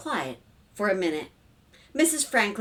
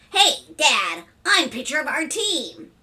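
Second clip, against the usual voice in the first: put-on higher, louder boyish call; eager boy; 6 semitones higher, 5 dB louder, slower than usual. A narrator's reading. Son interrupts dinner to tell Dad, eager boy. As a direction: burst in like an excited kid.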